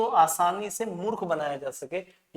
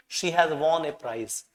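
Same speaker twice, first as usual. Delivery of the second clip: "she has won a prize" read out slowly; much slower than usual. Shown as a demonstration. Teacher reading the correct sentence, slow. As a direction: read the answer word by word. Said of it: "D".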